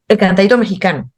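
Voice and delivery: "el cantadito mexicano" in Nicaraguan intonation, phrase cut short. Shown as a demonstration. Nicaraguan guest shows how her people say it: Nicaraguan intonation. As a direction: Nicaraguan accent with a clipped falling end. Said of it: "decimos, por ejemplo".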